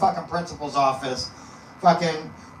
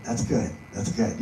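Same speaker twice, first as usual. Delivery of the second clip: wary relief; 8 semitones lower, 5 dB quieter than usual. Retold or imitated. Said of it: "And I'm like".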